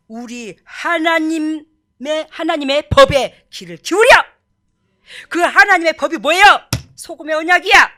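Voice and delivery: loud, emphatic pulpit proclamation; full-force preaching. Real, not acted. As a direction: hammer the words out to the congregation. (힘주어 외치는 설교)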